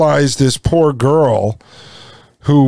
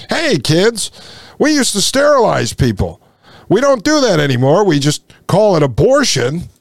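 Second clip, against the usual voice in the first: mock teacher; 3 semitones higher than usual. Teacher tells kids about past sterilizations, mock teacher. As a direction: announce it to the class with mock cheer. Acts a teacher telling schoolchildren.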